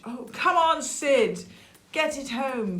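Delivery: high, cheering encouragement; urging on. Acted. Storyteller cheering Sid along the beach, high urging call. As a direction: spur on a story hero.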